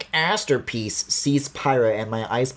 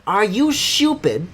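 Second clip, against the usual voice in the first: a mock British accent, higher and slower; 7 semitones higher, slower than usual. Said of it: "British people be like".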